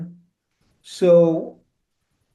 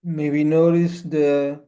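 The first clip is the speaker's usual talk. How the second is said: unhurried instructions with long pauses; spacious, measured meditation guidance; guided meditation. Acted. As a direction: guide listeners gently into stillness, phrase by phrase.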